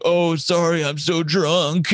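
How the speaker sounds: a light mock of a drunk apology. The comic teasing, imitating the drunk apology. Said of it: "he'd be like".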